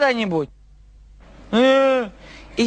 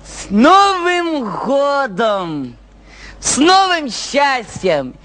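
festive toast; much slower than usual. Acted. Festive toast proclaimed slowly.

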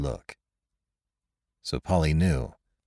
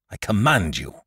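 slow commanding. A narrator's reading. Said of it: "slow and deliberate voice that carried far".

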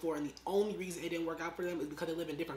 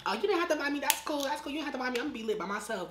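mock breezy reply; 7 semitones higher than usual. Retelling own breezy reply.

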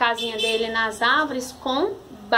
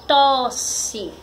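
"tosse" as one whole word; palavra juntada. Shown as a demonstration. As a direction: join both syllables of "tosse". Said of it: "Aí formou a palavra". ("tosse" dito como palavra inteira)

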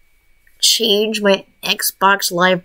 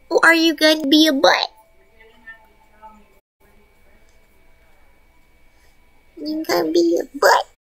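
pet talk; 4 semitones higher than usual. Real, not acted. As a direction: coo at the pet.

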